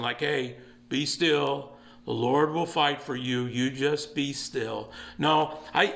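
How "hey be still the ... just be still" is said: gentle, soothing therapist tone; mild counseling-session calm. Retold or imitated. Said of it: "like a counseling session".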